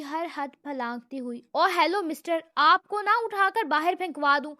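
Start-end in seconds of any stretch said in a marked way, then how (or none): 1.5-4.5 loud, higher furious threat; roaring. Acted. Secretary roars a threat at the brother. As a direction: roar the threat at him, beyond all limits. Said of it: "حیات چنگھاڑتی ہوئی".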